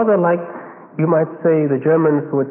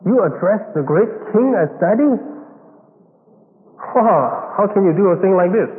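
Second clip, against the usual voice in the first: mock incredulity; 3 semitones higher than usual. Voices shocked Jews hearing 'Daddy'.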